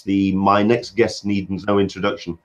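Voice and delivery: choppy, cutting out on a bad line; broken-up audio, words dropping out; buffering stutter. Real, not acted. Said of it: "you cut out there".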